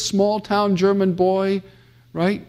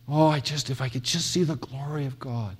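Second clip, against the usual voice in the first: softer, dreamy mock sigh of longing; hushed, half-mocking yearning; mock wistful longing; 3 semitones lower, 8 dB quieter than usual. Mocking a naive longing seeker.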